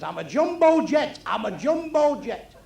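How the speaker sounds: high, slow drawn-out jumbo jet; stoned hippie. Retold or imitated. Stoned hippie on the rooftop, slow and high. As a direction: announce it slow and dreamy. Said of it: "he says".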